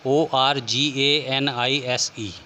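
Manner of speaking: letters spaced out slowly; teacher spelling a word slowly for students. Shown as a demonstration. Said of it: "S हो जाएगा".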